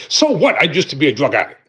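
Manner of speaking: daring the listener to judge; defiant so what. Pretend. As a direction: shrug off the past boldly. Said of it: "tell folk very plainly".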